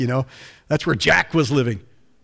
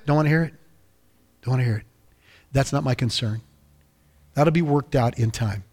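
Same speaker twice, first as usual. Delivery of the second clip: tender Father; faster than usual. Acted. God telling his child he just wants to love them, tender.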